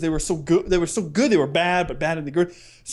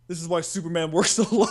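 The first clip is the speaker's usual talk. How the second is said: laughing quote; faster than usual. Retold or imitated. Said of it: "He looks at him and goes".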